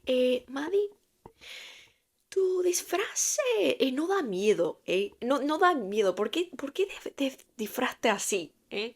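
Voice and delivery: put-on high, childish complaining voice in Spanish; imitating kids. Little students scolding teacher over costume, high kid voice. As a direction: play a disappointed little kid.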